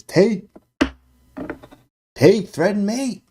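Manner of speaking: high, loud reading of a shouted message; all-caps chat message. Retold or imitated. Streamer reading a viewer's all-caps move suggestion, loud and high. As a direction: read it like it's typed in all caps. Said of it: "All caps".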